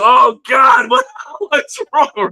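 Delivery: mock-terrified plea to the teacher; startled panic. Student recoiling from the shouting teacher, mock panic. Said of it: "I said".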